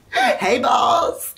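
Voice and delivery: high, mock-eager hail; playful calling out. Hailing an imagined boss, playful calling out. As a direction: call out high and cheeky.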